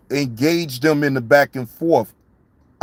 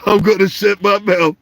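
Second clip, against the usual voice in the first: talking through laughter; laughing; 3 semitones higher than usual. Real, not acted. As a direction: promise it while still laughing. Laughs while promising to shut up.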